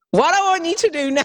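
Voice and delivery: loud, high stab at a New Zealand accent; overdone New Zealand instructor voice; attempted New Zealand accent. Shown as a demonstration. Imitating her instructor for the host, botched New Zealand accent. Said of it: "Do you want me to do the accent?".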